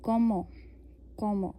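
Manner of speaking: कॉमो with a hard k, falling; French comment as कॉमो. Shown as a demonstration. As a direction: say कॉमो, k sound first. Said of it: "के sound से represent करेंगे".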